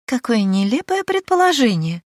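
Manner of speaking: high, loud, strained laughing; forced laugh. Acted. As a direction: laugh too hard to hide it. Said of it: "снова расхохоталась Деспина".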